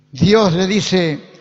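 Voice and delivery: slow, weighty proclamation; emphatic preaching. Acted. Preacher voices God's answer to Moses, emphatic preaching. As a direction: declare it firmly, phrase by phrase.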